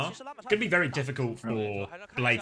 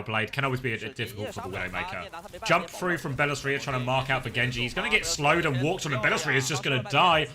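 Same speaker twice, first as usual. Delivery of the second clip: play-by-play casting. Acted.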